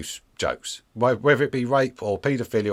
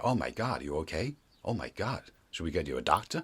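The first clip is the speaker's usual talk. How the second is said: fussing American; 4 semitones lower, 10 dB quieter than usual. Retold or imitated. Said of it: "Americans will go".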